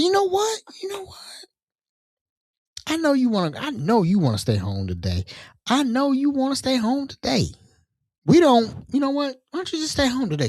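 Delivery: high, whimpering mock panic; nervous pleading. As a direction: beg her off, terrified. Scared firing tiny thug by phone.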